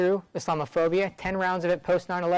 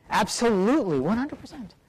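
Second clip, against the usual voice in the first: quoting Sheila's answer; 5 semitones higher than usual. Retold or imitated. Sheila quoted answering defiantly.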